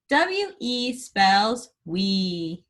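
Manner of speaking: letters spelt out slowly; slow spelling. Shown as a demonstration. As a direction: spell each letter with a pause. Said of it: "spell it".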